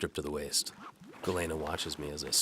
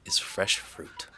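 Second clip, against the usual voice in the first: higher, louder lightly voiced young woman; Galena's voice; 7 semitones higher, 7 dB louder than usual. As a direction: voice the maid brightly and politely. Galena continues speaking.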